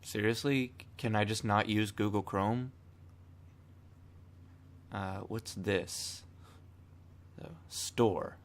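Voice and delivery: hoarse, just woke up; rough morning voice, hoarse. Real, not acted. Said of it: "Excuse my hoarse voice".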